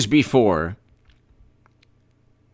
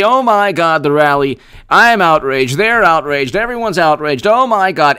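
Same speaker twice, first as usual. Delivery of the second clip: mock outrage; 3 semitones higher, 5 dB louder than usual. Mocking liberal outrage, building.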